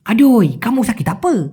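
slow Malaysian slang with pulled ending; Malaysian slang drawl. Shown as a demonstration. Senior asking sick worker, in drawling Malaysian slang. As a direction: stretch the final vowel the Malaysian way. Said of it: "এভাবে".

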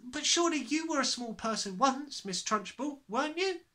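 put-on high, timid boy's voice; brave small boy. Small boy daring to question the headmistress.

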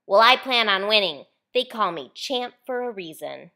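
mumbling through a mouthful of chips; mouth full. A narrator's reading. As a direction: talk around a mouthful of chips. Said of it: "Champ mumbled".

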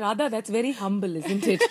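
dry sarcastic tease. Retold or imitated. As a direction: tease her, deadpan sarcasm. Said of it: "very sarcastic".

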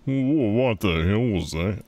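high, shocked yelp; startled shriek. Real, not acted. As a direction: shriek in sudden surprise.

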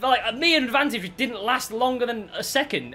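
loud, high frustrated rant at the ref; raging gamer. Real, not acted. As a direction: shout your outrage at the game. Gamer rages at the referee.

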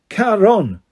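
"Charon" sounded out in two clear syllables, KA-RON; teaching pronunciation. A narrator's reading. Guard teaching a boy his name, "Charon" pronounced deliberately as KA-RON. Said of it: "Say it with me".

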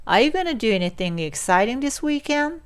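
"gonna" short and joined in a flowing question; linked gonna. Shown as a demonstration. Teacher repeats the sentence for learners, linked "gonna". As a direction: link "gonna" and let "weekend" lose its d. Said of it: "もう一度".

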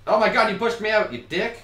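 very high, loud disbelief; shrieked accusation breaking into laughter; outraged yell. Real, not acted. Pushed out by partner, then laughs.

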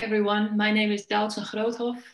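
usual speaking voice

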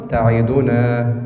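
تعيدنا said slowly, every vowel full; demo recitation. Shown as a demonstration. Teacher showing students a full-vowel reading, slow. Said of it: "الفتحة فتحة والكسرة كسرة والضمة ضمة".

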